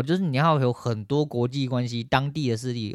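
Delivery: usual speaking voice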